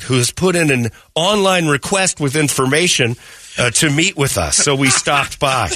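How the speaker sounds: lightly put-on missionary voice; mock missionary letter reading. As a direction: read the note as an earnest missionary, with a high hello.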